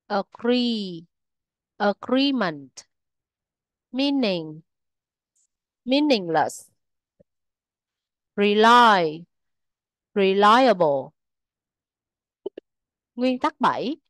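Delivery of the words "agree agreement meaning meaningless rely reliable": word pairs with the same stressed syllable in both forms; unchanged root stress. Shown as a demonstration. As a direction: keep stress on the root: aGREE, aGREEment, MEANing, MEANingless, reLY, reLIable. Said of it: "chính của từ không thay đổi".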